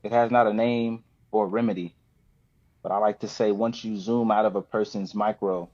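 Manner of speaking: measured spoken word delivery with long pauses; spoken word poem. Acted. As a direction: perform the poem deliberately, line by line. Reads his poem Judge Not.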